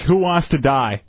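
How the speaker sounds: slow, eerie toy voice. Retold or imitated. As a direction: drag it out like a broken toy. Host imitating the toy phrase.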